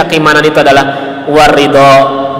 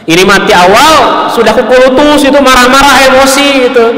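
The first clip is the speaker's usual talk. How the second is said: higher, louder mock grumble; mock grumbling anger; 9 semitones higher, 3 dB louder than usual. Preacher mimics an impatient person fuming at loss, mock grumble. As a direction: act out fuming impatience, lightly.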